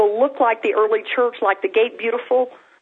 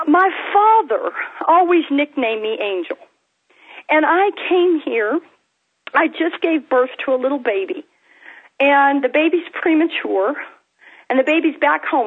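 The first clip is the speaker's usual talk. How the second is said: higher-pitched retelling of a tearful woman, no sobs; retold tearful testimony; 4 semitones higher than usual. Preacher retells a crying mother's words, mildly emotional, higher-pitched. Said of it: "She's crying and crying and crying".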